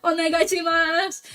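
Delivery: pleading fan. Retold or imitated. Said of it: "I was like".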